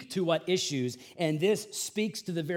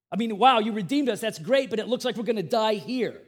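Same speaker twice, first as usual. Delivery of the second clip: louder, quick sarcastic griping; mock-grateful then doomed, raised voice; sarcastic complaint; 3 semitones higher, 5 dB louder than usual. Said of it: "They say".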